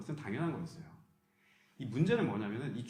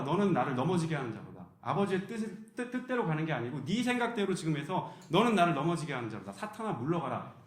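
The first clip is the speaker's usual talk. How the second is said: stern rebuke; 3 semitones higher, 3 dB louder than usual. Retold or imitated. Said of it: "예수님이 베드로를 보고 뭐라고 했냐면".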